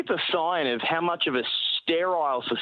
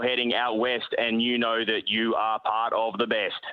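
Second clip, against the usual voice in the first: steady, measured platform announcer voice; train station announcement. Shown as a demonstration. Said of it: "give us a couple of your classics".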